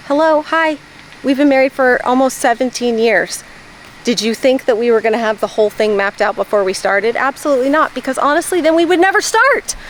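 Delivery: high, incredulous comeback; bright teasing disbelief; sassy retort. Retold or imitated. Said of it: "And I'm like".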